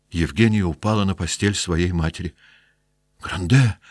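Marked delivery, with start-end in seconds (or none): 3.2-3.8 first call, rising, still held back. Acted. Sick wife calling out to her husband from bed. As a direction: call his name to stop him. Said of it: "закричала больная".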